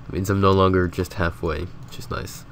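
stuffy nose from a cold; sick, congested voice; blocked nose. Real, not acted. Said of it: "you may notice that I sound horrible right now".

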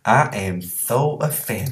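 slow, drawn-out mock indignation; mock offended. Playing along with a friend's roof-fixing joke, mock offended. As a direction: play-act offence, stretching every word. Jokey reply about being offended.

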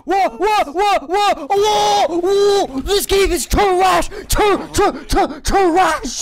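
raging gamer. Real, not acted. Losing the match, yelling.

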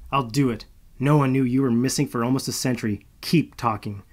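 loud, with a hard drop on talking; snapped threat. Acted. Malo threatens Marcus over her shoulder, loud snap. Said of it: "I snapped over my shoulder".

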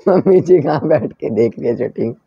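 talking through a soft laugh. Real, not acted. To the viewers, laughing that mom is watching the shoot. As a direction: let the laugh run through the words.

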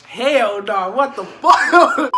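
high, loud laughing shriek; laughing outburst. Real, not acted. Cracking up at his own story, loud and high. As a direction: break up laughing mid-sentence.

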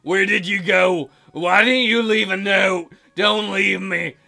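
a hint of a hurt, lonely boyfriend; tearful Zell. Voices Zell.

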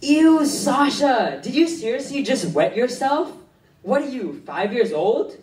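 loud, high disgusted outburst. Acted. Mocking a friend who wet herself, disgusted. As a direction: recoil in disgust, stretching the "ew".

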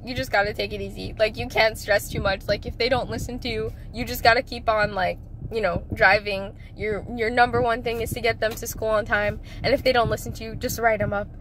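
low, gentle mom voice; calm mom advice. Retold or imitated. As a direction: soothe her like a calm mother. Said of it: "My mom was just like".

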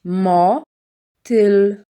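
"Motyl" read a little drawn out, syllable by syllable; slowed reading. Shown as a demonstration. Teacher reads the word slowly for a child. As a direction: stretch "Motyl" gently for a beginner. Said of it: "first take, slower".

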